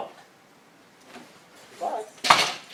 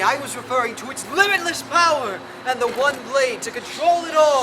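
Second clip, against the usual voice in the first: booming dark lord proclamation; grand villain boast; 4 dB louder, faster than usual. Pretend. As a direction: declare it like a movie villain.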